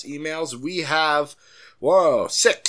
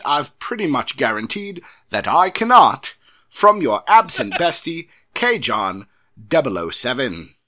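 hammed-up English accent, loud; Michael Caine; 6 dB louder than usual. Host reading the email sign-off, exaggerated English accent. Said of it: "I appreciated the Michael Caine".

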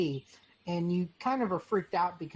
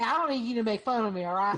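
put-on cowboy accent; 4 semitones higher, 4 dB louder, much faster than usual. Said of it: "how about a cowboy accent".

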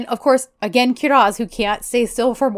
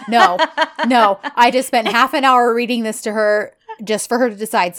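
loud, emphatic noes, then a complaint; acted exasperation with hard-hit refusals; mock fed-up refusal; 2 semitones higher, 4 dB louder than usual. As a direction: put your foot down, playing exasperated. Man refusing, fed up, retold.

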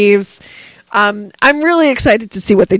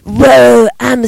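Keanu Reeves impression; 3 dB louder than usual. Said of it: "Could you imagine if Keanu Reeves?".

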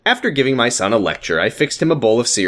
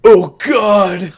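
higher, loud panicked cry; shocked shout; 8 semitones higher, 7 dB louder than usual. Acted. Ricky seeing his wife go into labor, shocked shout. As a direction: blurt it out in shock. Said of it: "Ricky was in shock".

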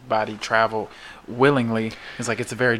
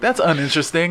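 mock disdain; 7 semitones higher, 6 dB louder, faster than usual. Mock reaction.

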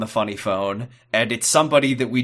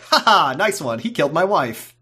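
Graham; 4 semitones higher than usual. Acted. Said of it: "And then Graham is like".

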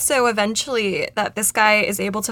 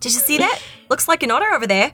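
bad Australian accent; 4 semitones higher, faster than usual. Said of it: "And it's a bad Australian".

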